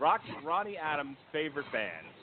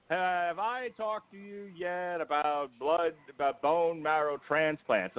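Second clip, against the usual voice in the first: lightly voiced slow Bond villain; a hint of drawn-out villainous delivery; slower than usual. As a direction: imitate a doctor as a measured movie villain. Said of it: "with his Bond villain voice".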